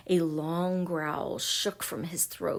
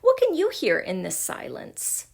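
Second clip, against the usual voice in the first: high, scoffing question; mocking; 8 semitones higher, 4 dB louder than usual. A narrator's reading. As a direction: pitch it up in mock disbelief. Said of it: "mocked Kip".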